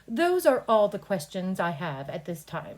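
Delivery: matter of fact. Shown as a demonstration. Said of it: "just very professional and matter of fact".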